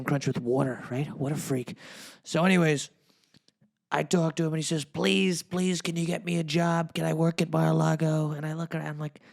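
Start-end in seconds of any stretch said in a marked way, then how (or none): 4.8-8.3 mildly hammed-up begging; pleading. Mike begs for a job, mock pleading.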